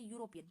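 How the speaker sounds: यूरोपियन starting with a y sound; silent E. Shown as a demonstration. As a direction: say यूरोपियन as "yoo", no e sound first. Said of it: "ई को pronounce नहीं करेंगे".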